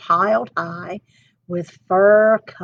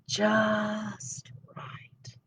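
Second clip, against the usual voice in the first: drowsy whisper, much softer; murmured; 12 dB quieter than usual. Acted. Aluki in the smallest bed, sleepy whisper. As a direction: sink into it half asleep. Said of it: "Aluki murmured".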